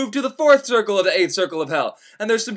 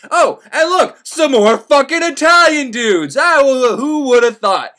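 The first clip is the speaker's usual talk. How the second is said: mock surprise; 6 semitones higher, 6 dB louder, slower than usual. Mock surprise at more Italians.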